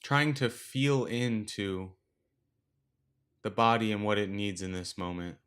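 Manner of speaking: unhurried meditation guide, long pauses between phrases; guided meditation. Acted. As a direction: gently lead listeners through the breath, leaving space after each instruction. Leads a breathing meditation.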